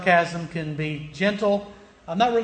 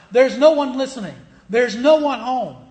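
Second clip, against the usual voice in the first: louder, higher, punched out; emphatic preaching; 5 semitones higher, 5 dB louder than usual. Real, not acted. Preacher telling idol worshipers nobody hears them, emphatic. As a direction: drive each phrase home with force. Preacher driving the point home.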